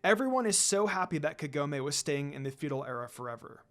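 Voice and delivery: steady storytelling read of a fanfic; story narration. A narrator's reading. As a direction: read the chapter like a narrator to listeners. Reads fanfic story aloud.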